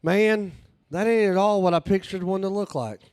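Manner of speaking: a hint of the earnest tourist. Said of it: "And he's like".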